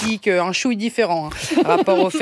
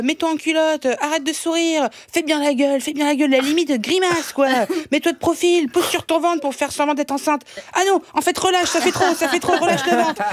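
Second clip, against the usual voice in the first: voix de directeur de casting un peu plus haute, ordres rapides; photographe de casting imité; 5 semitones higher than usual. Retold or imitated. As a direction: donne tes consignes comme un photographe pressé, en plus aigu. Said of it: "Il était là". (le chasseur de tête qui dirige la séance photo, voix plus aiguë)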